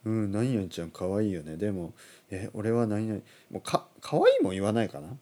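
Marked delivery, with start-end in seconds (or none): 0.0-3.2 lightly voiced indecisive young man; a touch of mumbly male dithering; mumbling young man. Imitating Terrace House men hedging about a crush, mildly mumbled. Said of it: "で、男は".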